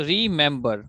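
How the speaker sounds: रिमेंबर broken as रि, मेम, बर; teacher sounding out रिमेंबर in three beats; syllable by syllable. Shown as a demonstration. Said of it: "रिमेंबर तीन है". (रिमेंबर को तीन syllable में अलग-अलग)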